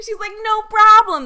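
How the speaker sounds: high, loud sing-out; imitated breezy reply. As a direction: imitate a boss calling back cheerfully. Angela cheerily answers customers' thanks.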